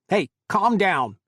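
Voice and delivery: high, loud, slow sharp snap; snapped. A narrator's reading. Chris checking the angry guard, sharp loud snap. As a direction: cut him off sharply. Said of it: "Chris snapped".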